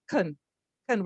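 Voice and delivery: "kun" barely said, with a tiny schwa; unstressed, clipped "kun"; reduced schwa syllable. Shown as a demonstration. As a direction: squeeze "kun" down to almost no vowel. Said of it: "as if we're barely even saying".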